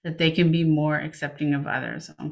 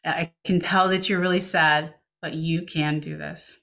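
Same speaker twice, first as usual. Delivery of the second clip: calm reassurance. Shown as a demonstration. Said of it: "stay calm and you are going to be there".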